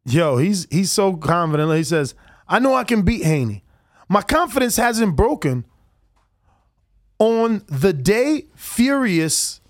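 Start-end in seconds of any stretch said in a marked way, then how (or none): 2.5-9.6 Kambosos. Retold or imitated. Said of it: "I just love your, uh, accent you do".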